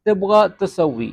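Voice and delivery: slow, careful Arabic phrase for learners; teacher dictating slowly; slow model phrase. Shown as a demonstration. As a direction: spell out تبغى تسوي slowly like a teacher. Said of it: "اب اکثر آپ لوگ کہہ رہے ہوں گے".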